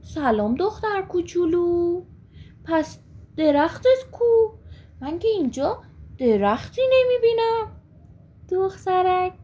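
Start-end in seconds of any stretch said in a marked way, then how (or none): 0.0-7.8 puzzled surprise. Acted. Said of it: "با تعجب نگاهی کرد و گفت".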